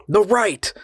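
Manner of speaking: hissed, high urgent whisper. A narrator's reading. The voice urging the man right, in a high whisper. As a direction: push him on with a sharp whisper. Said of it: "its tone was impatient".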